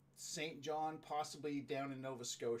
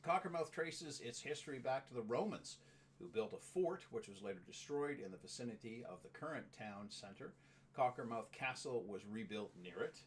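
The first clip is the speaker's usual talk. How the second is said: informational read-out. Real, not acted. Reads out a town description.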